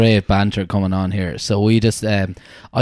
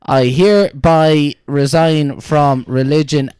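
slow, raised, grand announcement; mock solemn declaration; 5 semitones higher, 4 dB louder, slower than usual. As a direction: play it like a pompous proclamation. Priest's mock-formal resignation.

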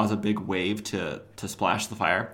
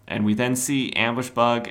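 normal talking voice

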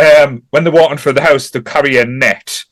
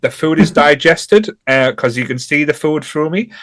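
a hint of Cockney in a retold moan; accidental Cockney accent. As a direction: lightly imitate him, slipping into Cockney. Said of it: "I'm doing a Cockney accent now".

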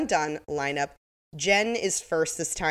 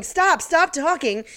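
mock Briscoe; 11 semitones higher, 6 dB louder, slower than usual. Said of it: "Briscoe's going".

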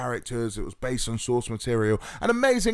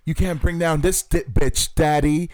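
louder, higher bratty defiance; hammed-up teen drama line; mock Veronica; 4 semitones higher, 4 dB louder than usual. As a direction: sass daddy like a spoiled heiress. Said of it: "Veronica's lines".

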